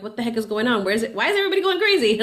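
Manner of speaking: mock panic over blowing-up messages, climbing into laughter; frazzled what the heck. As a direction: get swept up in the chaos until the last line bursts up with a laugh. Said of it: "you're like".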